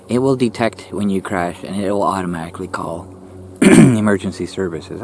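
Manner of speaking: losing voice, throat scratchy; hoarse voice. Real, not acted. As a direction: talk through a sore throat. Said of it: "I'm losing my voice already".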